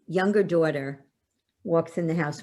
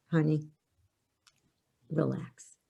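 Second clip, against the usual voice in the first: soft, calm reassurance; soothing dad; 2 semitones lower, 5 dB quieter than usual. Retold or imitated. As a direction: settle her down gently. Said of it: "and he goes".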